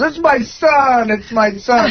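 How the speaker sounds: put-on lightly slurred drunken dad, drawn out; mock drunken announcement. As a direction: imitate a drunk proud father, words stretched. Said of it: "drunkenly goes to me".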